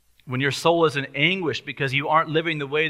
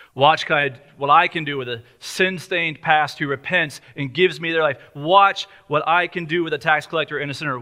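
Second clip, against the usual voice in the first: preaching at full force. Acted. Pastor voicing Jesus to sinners, preaching at full force. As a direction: preach each Watch like a rising promise.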